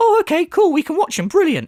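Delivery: mocking, very high, clueless, dim-witted fan voice. Imagining the fans trying to keep up: mocking imitation of brain dead fans. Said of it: "imagine his fucking brain dead fans trying to keep up".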